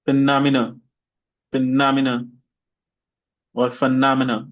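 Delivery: phenomena with stress on -nom-; stress demo. Shown as a demonstration. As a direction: say it clearly for the class to repeat. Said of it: "this is for the main stress".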